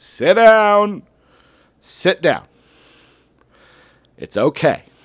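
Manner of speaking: very loud, very high-pitched teacher voice. Retelling telling jumping kids to sit down, retelling a loud voice. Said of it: "use my loud DC Matthews voice".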